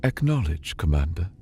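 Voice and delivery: calm, even AI voice; calm placid. Acted. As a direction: report it with total calm. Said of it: "the calm, placid voice returned".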